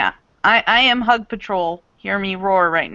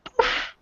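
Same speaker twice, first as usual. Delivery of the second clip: soft voiceless poof; a quick breathy poof effect; poof sound; 5 dB quieter than usual. Acted. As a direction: puff it out with no voice. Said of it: "Japanese woman just goes".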